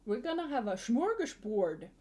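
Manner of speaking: "smorgasbord" anglicized, shm start and "board" ending; mock English mispronunciation. Mimicking English speakers who borrow Swedish words, anglicized "smorgasbord". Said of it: "they just mispronounce it so badly".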